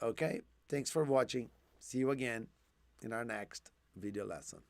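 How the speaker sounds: hoarse, fading voice; strained, faltering voice; losing voice. Real, not acted. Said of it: "I'm losing my voice now".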